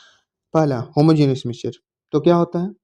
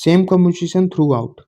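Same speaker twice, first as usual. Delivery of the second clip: reading a definition out word by word, slowly; slow dictation; much slower than usual. Shown as a demonstration. Teacher dictating a definition to the class, very slowly. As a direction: dictate it slowly so students can copy.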